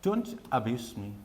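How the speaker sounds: very slow, spaced-out demo phrase; slow teaching demo of the phrase. Shown as a demonstration. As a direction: say each word slowly for learners. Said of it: "मैं आपको थोड़ा सा और बताता हूँ".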